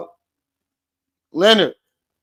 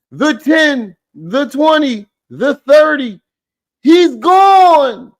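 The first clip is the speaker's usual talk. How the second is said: higher, louder mock football call; mock play-by-play; 12 semitones higher, 7 dB louder, much slower than usual. Mocking the forehead with a touchdown call, a sportscaster bit.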